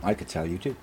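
a quiet attempt at a Scottish accent. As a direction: copy his Scottish mate's accent. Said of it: "My Scottish accent is getting much better".

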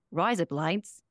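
brief Australian party-trick accent. Shown as a demonstration. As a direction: put on a broad Australian accent. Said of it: "the only Australian I, can do".

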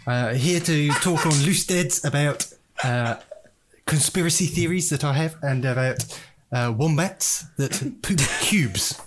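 put-on slow, laughing South African accent as Brad. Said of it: "Who can actually do a South African impression?".

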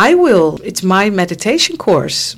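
light imitation of an American accent. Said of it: "Maar dan met zo'n Amerikaans accent".

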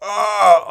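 high, drawn-out mock yell; retold shout. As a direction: re-enact a startled holler, held back a little. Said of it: "og så råber jeg bare".

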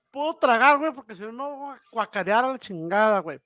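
queasy, about to throw up; hungover. Real, not acted. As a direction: talk through the nausea. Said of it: "ando crudo".

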